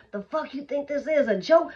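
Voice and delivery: angry buyer. Retold or imitated. Buyer yelling at seller.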